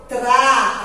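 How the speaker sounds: "tra" drawn out; stretched "tra" as the strong syllable; held stressed syllable. Shown as a demonstration. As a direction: linger on "tra". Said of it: "a sílaba que a tia Daniele mais demora".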